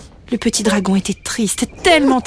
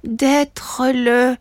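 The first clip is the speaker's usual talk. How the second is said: drawn-out, broken-off repeat; stalling little dragon; 3 semitones higher than usual. Acted. Son fails to repeat his father's prompt, hesitant. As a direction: stop short, unable to go on.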